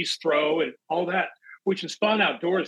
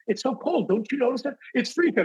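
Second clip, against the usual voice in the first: acting cold; 9 semitones higher than usual. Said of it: "he goes".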